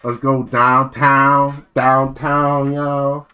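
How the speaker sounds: put-on slow Philly South Jersey accent. Imitating South Jersey locals, Philly accent. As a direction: lay on the local Philly talk. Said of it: "talk a little bit like this".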